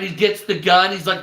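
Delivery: ordinary talk, nothing marked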